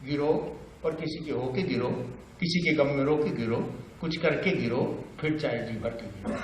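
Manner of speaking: hushed talky recital; Bhavani Prasad Mishra. Acted. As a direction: bring the poem down gently line by line. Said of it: "बातचीत की शैली".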